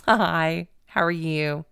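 friendly greeting with Texas charm; put-on Texas charm. Traveler greets customs officer hoping to win him over, Texas charm. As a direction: turn on the Southern charm, retold. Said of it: "turn on this Texas charm".

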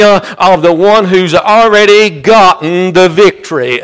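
rhythmic, driving sermon delivery; fervent preaching. Real, not acted. Preacher urging the congregation that he knows, fervent preaching. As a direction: preach it with insistent repeated cadence.

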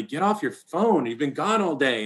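half-hearted imitation of scolding; imitated yelling. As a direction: imitate a wife's yell without much volume. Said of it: "my wife's yelling at me".

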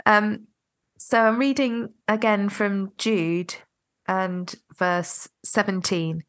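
stuffy, cold-clogged nose; blocked nose, real head cold; nasal voice. Real, not acted. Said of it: "if I sound a bit nasal".

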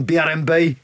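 badly attempted Birmingham accent; terrible Birmingham accent. Host joking with caller about old radio days, bad Birmingham accent. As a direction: have a poor go at a Brummie accent. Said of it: "That's a terrible accent from me".

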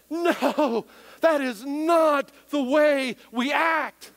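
stern parent scold. Retold or imitated. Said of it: "you're freaking out because you're like".

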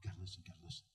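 low, very soft near-whisper; hushed. Acted. Preacher hushing the congregation before his point, very soft. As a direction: draw them in with a hush.

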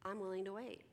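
mild, softened reassurance; gentle, non-threatening. Acted. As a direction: say it gently, leaving room for an answer. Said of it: "very gently and non-threateningly say".

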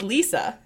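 Lisa as "LEE-suh"; correct pronunciation Lisa. Shown as a demonstration. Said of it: "is how you're supposed to say it".

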